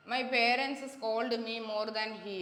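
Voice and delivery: very slow, carefully spaced reading of the wrong sentence; slow reading of the incorrect example. Shown as a demonstration. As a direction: dictate it slowly, word by word. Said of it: "അതായത്".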